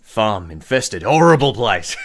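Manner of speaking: lightly voiced boss with growing relish; scheming gang boss. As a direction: deal out the jobs, building to loud disgust.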